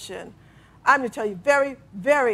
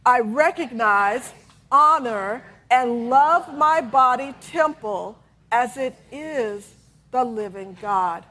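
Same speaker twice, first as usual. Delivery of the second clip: slow affirmation; slower than usual. Shown as a demonstration. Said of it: "please say that with me".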